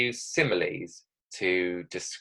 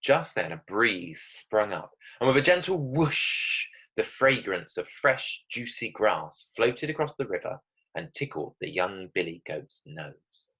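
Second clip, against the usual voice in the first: story narration. Acted. Reads her story aloud.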